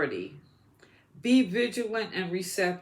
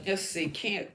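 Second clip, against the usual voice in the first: hiccuping mid-sentence; words broken by hiccups. Real, not acted. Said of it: "got the hiccups".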